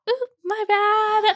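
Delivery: high, slow, drawn-out sheepish ooh; sheepish apology. Retold or imitated. Photographer owning up to her blunder, sheepish and drawn out. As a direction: stretch it out like a guilty cringe.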